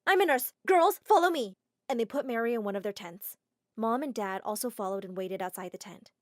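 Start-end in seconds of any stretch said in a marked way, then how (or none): 0.1-1.6 higher, loud take-charge call; rally the girls; commanding shout. Acted. Nurse girl calls the others to follow, loud. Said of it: "One of the girls screamed".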